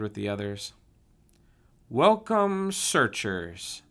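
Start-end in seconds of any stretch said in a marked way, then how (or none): 1.9-3.8 high, loud welcoming call; shouting. A narrator's reading. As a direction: call out to the whole group. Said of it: "Saul shouted".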